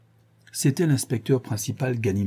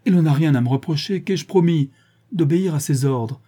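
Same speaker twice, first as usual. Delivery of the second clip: higher, louder protest; a mildly heated, raised defence; lively exclamation; 5 semitones higher, 4 dB louder than usual. Acted. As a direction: keep insisting with heat. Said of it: "s'écria vivement le professeur".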